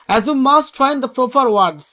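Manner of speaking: slow, deliberate read of the text; slow reading aloud. Acted. Teacher reading the essay slowly to students. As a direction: read the passage out slowly for the class.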